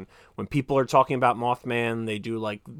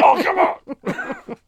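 drawn-out, much higher, louder protest; exasperated groan; 8 dB louder, much slower than usual. Retold or imitated. Friend groaning at the running chapstick joke, exasperated. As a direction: stretch it out in mock despair. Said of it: "And he'd be like".

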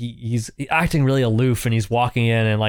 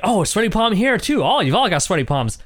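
lightly mocking surprise; 7 semitones higher than usual. Retelling the handshake scene.

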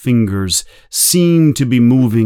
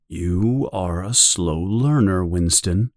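softer and lower, a patient gentle chide; gently; 4 semitones lower, 5 dB quieter than usual. Acted. O'Brien gently chides the tortured Winston, softer and lower. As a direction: speak softly, like a patient teacher. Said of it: "says O'Brien gently".

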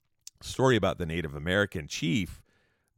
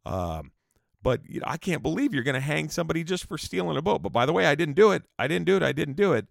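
protesting Yankee Jim; 7 semitones higher, 3 dB louder, faster than usual. Retold or imitated. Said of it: "And then he was like".

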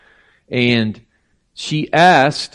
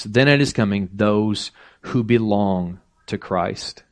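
scripture reading. Acted. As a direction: read the verses out with gravity. Preacher reads scripture aloud.

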